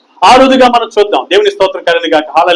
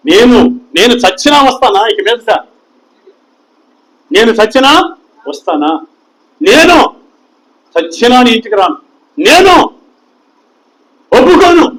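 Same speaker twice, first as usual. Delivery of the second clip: lightly hammed-up defiant vow; mocking boast; 2 semitones higher than usual. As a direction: imitate a proud churchgoer refusing to come back. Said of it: "ఇలాంటి ప్రగల్భాలు పలుకుతాం".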